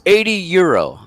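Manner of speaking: high-pitched mock demand; angry bar owner. Bar owner demands money for the vase, mock indignant. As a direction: put on the irate owner naming his price. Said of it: "yelling at us in German".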